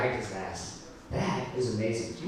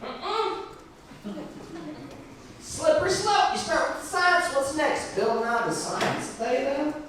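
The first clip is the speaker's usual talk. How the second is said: mock redneck rant; 13 semitones higher, slower than usual. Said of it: "He's like".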